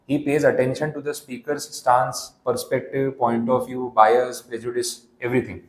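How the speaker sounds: slow, deliberate reading of the slide; unhurried dictation pace. Shown as a demonstration. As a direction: read it word by word for notes. Reads slide text slowly.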